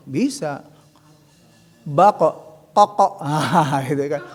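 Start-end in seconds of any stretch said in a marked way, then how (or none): 1.8-3.2 "ako, bako, tako" each ending in a bouncing qaf; qaf syllable drill. Shown as a demonstration. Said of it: "Kok jeung kok deui". (latihan suku kata dengan qaf memantul)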